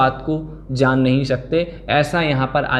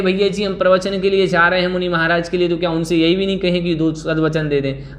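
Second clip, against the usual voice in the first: imagined objector; 3 semitones higher, faster than usual. Retold or imitated. Voices imagined objector asking.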